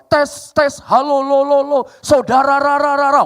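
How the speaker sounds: high, loud mic test with stuttering echo; mimicked sound-system echo. Villagers trying the new JBL sound system, mimicked echo. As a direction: repeat the tail syllables like booming speaker echo. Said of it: "Begitu dicoba".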